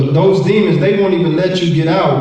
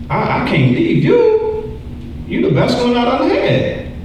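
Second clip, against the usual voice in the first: sin's clingy voice; 10 semitones higher than usual. Acted. The sin speaking to its host.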